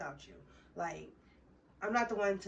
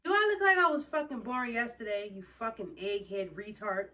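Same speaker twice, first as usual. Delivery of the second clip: furious; 6 dB louder than usual. Real, not acted. Ranting about the girl's puppy lie, loud furious outburst. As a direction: blast it at the liar.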